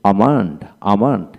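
আমান্ড with a long "aa" and no L; silent L. Shown as a demonstration. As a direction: say আমান্ড, dropping the L of "almond". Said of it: "এল উচ্চারণ হবে না". (আমান্ড, এল উচ্চারণ ছাড়া)

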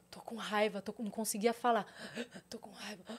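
breathless, voiceless whisper, choked up. Retold or imitated. Singer telling her crisis, choked whisper. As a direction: whisper it as if too choked to speak. Retelling crying fit at rehearsal.

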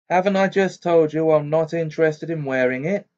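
fierce. A narrator's reading. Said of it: "Harry said fiercely".

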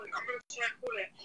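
breathy hushed whisper of a retold thought. Caller retelling her thought to Tommy, in a hushed whisper. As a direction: whisper it like a secret plan. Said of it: "But I was like".

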